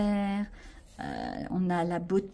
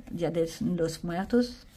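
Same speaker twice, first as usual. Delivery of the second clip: slow, careful Spanish with a French accent; 3 semitones lower, slower than usual. Shown as a demonstration. Vlogger reading a sticker theme, slow French-accented Spanish. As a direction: try the Spanish proudly in a heavy French accent. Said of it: "Mon accent est magnifique".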